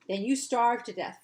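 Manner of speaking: put-on bossy child threatening; unkind retort. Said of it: "Florrie said unkindly".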